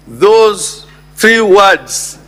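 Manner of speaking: "Those three words" said very slowly; emphatic pointing. Shown as a demonstration. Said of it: "I emphasize the word".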